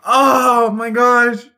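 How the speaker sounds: high, loud squawk of surprise; squawky bird voice. Acted. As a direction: squawk it out in shock. Bird-like shocked exclamation.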